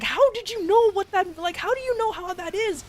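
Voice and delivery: retold shock. Shocked tutor questioning the child.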